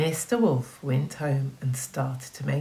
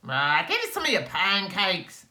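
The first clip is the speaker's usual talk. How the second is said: rude neighbours; 4 semitones higher than usual. Acted. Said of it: "the rotten lot said".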